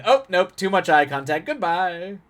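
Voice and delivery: panicky, pitched high, fleeing politely; high flustered goodbye. Retold or imitated. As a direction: squeak out a hasty farewell. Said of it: "Just like".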